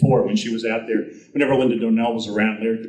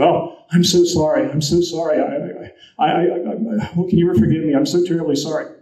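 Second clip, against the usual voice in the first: a touch higher, flustered repeated sorrys; lightly voiced apology; 5 semitones higher than usual. Actor kneeling by the woman he knocked out, mildly flustered apology. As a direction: stammer out the apology, half-hearted distress.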